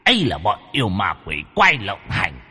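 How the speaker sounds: hushed solemn deity. Acted. Demon speaks as Bụt.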